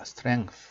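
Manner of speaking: "strength" ending in a TH sound. Shown as a demonstration. Teacher pointing out the TH, careful model of "strength". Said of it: "이것도 티에이치 발음 있죠?".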